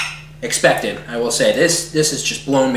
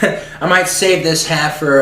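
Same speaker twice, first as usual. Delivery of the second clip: laughing; slower than usual. Real, not acted. Laughs while talking.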